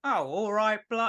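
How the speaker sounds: attempted London Cockney; playful Cockney impression; Cockney accent. Shown as a demonstration. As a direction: have a go at Cockney on request. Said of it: "I can speak Cockney quite well".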